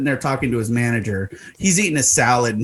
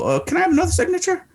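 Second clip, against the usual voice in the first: calm, plain ask; faster than usual. Retold or imitated. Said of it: "I look at him calmly, plainly, go".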